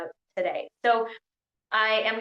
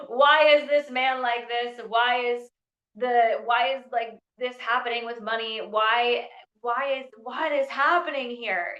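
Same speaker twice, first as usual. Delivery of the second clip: louder, higher pleading questions, hammed-up; mock exasperation; 4 semitones higher, 4 dB louder than usual. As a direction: throw your hands up at the universe. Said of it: "you're like".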